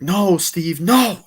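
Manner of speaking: high, loud mock refusal; acted-out argument. Woman refusing to renounce the wish, arguing. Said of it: "they have an argument".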